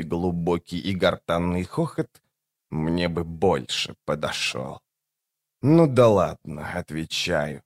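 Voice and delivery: low, slow, soft undead voice; creature voice. A narrator's reading. The creature speaks.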